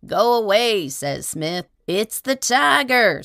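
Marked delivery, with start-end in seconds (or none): 0.1-0.9 refusing shout. A narrator's reading. Smith refusing the tramp. 1.9-3.2 high, loud, slow terrified yell; scream. A narrator's reading. Tramp outside the inn door, high loud scream. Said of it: "screams the tramp".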